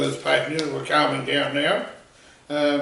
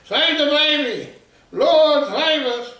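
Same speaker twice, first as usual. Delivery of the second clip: panicked screaming; 8 semitones higher than usual. Retold or imitated. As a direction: shriek like terrified passengers. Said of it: "running around the plane screaming".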